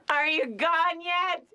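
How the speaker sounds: high, drawn-out call to someone outside; calling through door. Acted. Calls through door to creditors.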